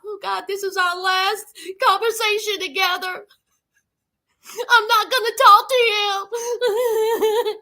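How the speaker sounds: hammed-up tearful wail; mock crying. Ayana on the phone to Jamal, mock crying.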